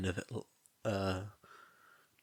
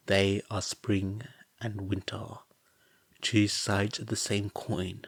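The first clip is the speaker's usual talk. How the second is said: calm poetic reading; story narration. A narrator's reading.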